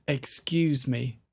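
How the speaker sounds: "excuse me" said slowly, each sound clear. Shown as a demonstration. Teacher modelling "excuse me" for students, slowly. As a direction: stretch out "excuse me" gently. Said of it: "So now we have".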